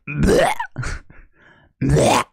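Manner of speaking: short loud gagging scream; harsh retching yell, metal style. Pretend. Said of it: "sounds like I'm retching".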